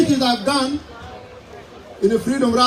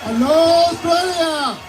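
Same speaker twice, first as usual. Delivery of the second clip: calling out; 4 semitones higher, slower than usual. Real, not acted. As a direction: hail the whole crowd. Greeting the rally crowd.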